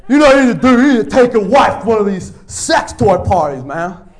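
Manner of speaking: loose-mouthed dude giving loud advice; slack-jawed guy. Retold or imitated. Guy in Sacramento pushing bad advice, slack-jawed and loud. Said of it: "his mouth was really loose, like a slack jaw".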